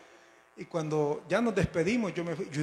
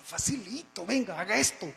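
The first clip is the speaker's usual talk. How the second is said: higher, lilting mock-easy advice; breezy reassurance; 5 semitones higher than usual. Old church members coach the newcomer, breezy. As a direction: coax as if it were simple. Old believers answer his eager question.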